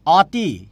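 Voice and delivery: অতি said as oti, the first vowel a closed o. Shown as a demonstration. Teacher to students, saying অতি with an o sound. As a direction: say অতি starting with o, not the open ɔ. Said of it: "এটার উচ্চারণ কি করি আমরা".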